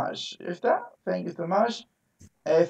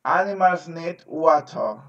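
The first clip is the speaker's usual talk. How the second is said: slow echo. Shown as a demonstration. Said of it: "Very good".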